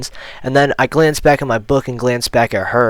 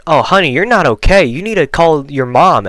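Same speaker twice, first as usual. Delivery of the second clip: lightly voiced nurse, higher pitch; concerned nurse; 4 semitones higher than usual. Nurse telling sick student to call mom, lightly imitated concern. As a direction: fuss a little, like a concerned nurse.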